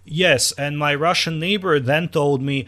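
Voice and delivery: high, drawn-out fake Russian accent; badly faked Russian accent, very high and slow; butchered Russian accent. Comic mocking comics who play Russians, butchered Russian accent. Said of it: "the fake Hollywood Russian accent".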